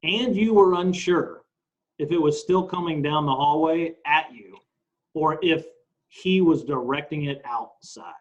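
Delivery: slow, deliberate reading of a statement; read-aloud. Acted. Co-host reads testimony to his partner, slow read-aloud. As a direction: read it out slowly, word by word.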